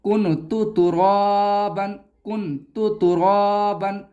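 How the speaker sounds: कुंतु with a sharp clear n; wrong clear-n reading. Shown as a demonstration. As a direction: say कुंतु तुराबन with the n voiced. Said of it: "ऐसे नहीं पढ़ा जाएगा".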